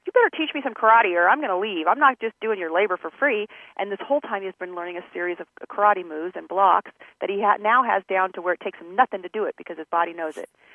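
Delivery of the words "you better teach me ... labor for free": put-on angry, mad-sounding voice. Retelling a complaint from The Karate Kid, imitating someone mad. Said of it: "he's all mad. He's like".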